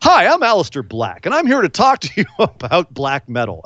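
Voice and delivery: lightly voiced teenage boy introducing himself; mock early promo voice, swooping pitch; Aleister Black. Co-host imitating the wrestler before his wrestler voice, mock teenager. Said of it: "you sound like a fifteen-year-old".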